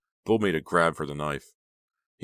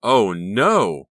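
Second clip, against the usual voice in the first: high, loud cry of horror; horrified scream; 4 semitones higher, 10 dB louder than usual. A narrator's reading. Becca sees Honey with Bill, screaming. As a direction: shriek it, aghast. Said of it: "Becca screamed in horror".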